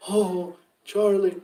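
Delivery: slow, drawn-out grieving cry over a grave; imitating a big man weeping for his brother; mock sobbing. Imitating Mike sobbing at his brother's grave, slow and mournful. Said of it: "like this".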